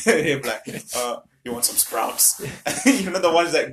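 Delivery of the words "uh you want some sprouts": dinner lady. Retold or imitated. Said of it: "old dinner ladies".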